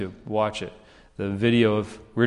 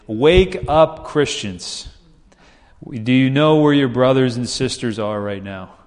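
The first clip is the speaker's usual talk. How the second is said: mock crowd call, raised on the opening words; retold rousing call; 5 dB louder than usual. Visiting pastor addresses a crowd from a lift truck, retold rousing call.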